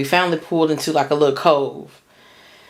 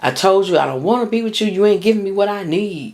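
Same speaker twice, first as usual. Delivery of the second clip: retold shouting; 5 semitones higher than usual. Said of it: "exactly the words I remember him saying".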